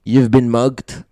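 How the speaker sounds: slow, drawn-out mock shout; retold shout. Mugger calling back as he runs away, a slow, mild mock shout. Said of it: "ran away and shouted back".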